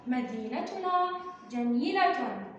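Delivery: put-on each word read slowly and clearly to the children. Shown as a demonstration. Teacher reading a sentence slowly to young pupils. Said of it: "هيا بنا نكتشف الجملة".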